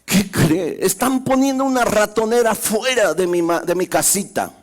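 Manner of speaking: high, scared little mouse voice; frightened mouse. Acted. Scared mouse warns the hen, high and urgent. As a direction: plead like a terrified mouse. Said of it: "bien espantado y le dijo".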